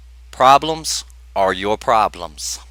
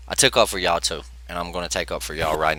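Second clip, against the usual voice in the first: whisper; 5 semitones lower, 5 dB quieter, faster than usual. Real, not acted. Unvoiced aside to viewers.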